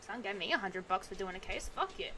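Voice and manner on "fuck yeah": softer, higher private yes; a hushed little victory cheer; quiet cheer. Real, not acted.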